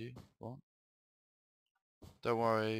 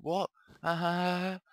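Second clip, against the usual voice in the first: gleeful villain laugh; 9 semitones higher, 6 dB louder than usual. Acted.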